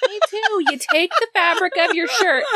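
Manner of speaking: high, laughing confession. Real, not acted. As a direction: giggle through a guilty secret. Laughing confession about powdered sugar.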